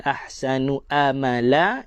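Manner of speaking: wrong-way "amala", opening on a simple a; ain read as hamzah. Shown as a demonstration. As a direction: say "amala" with a plain glottal onset, no ain. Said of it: "itu tuan-tuan dah baca dengan hamzah".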